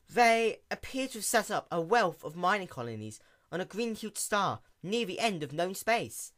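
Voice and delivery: quick, bright-eyed little mechanic pony; lightly voiced sea pony. A narrator's reading.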